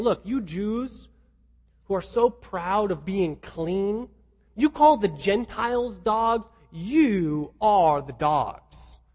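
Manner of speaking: slow, pointed biting rebuke. Acted. Preacher voices Paul turning the dogs insult back, biting. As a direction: draw out the accusation, leaning on "you are". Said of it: "Paul here is being very biting".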